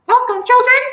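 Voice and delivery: very loud, booming God impression; thunderous God voice. Preacher imagines God greeting souls in heaven, thunderous voice. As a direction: boom it out as God welcoming everyone to heaven. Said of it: "deep, thunderous voice".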